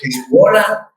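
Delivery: very high squeak on "Hola", then a puzzled question; mock nephews chirping "hola"; squeaky kid voice. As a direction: imitate a child's shrill greeting. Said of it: "mis sobrinos me empezaron a decir".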